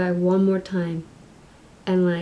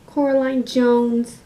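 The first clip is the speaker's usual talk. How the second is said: slow, raised, measured delivery; in-character naming; 4 semitones higher, 4 dB louder, slower than usual. Acted. Other Mother costume, addressing Coraline, slow and deliberate. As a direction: say the full name slowly and deliberately. Second, lower take of the name.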